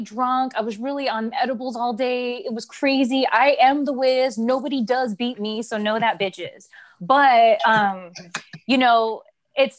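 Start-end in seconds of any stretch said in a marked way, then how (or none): 3.3-6.7 Wiz boast. Retold or imitated. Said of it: "I started walking like the Wiz".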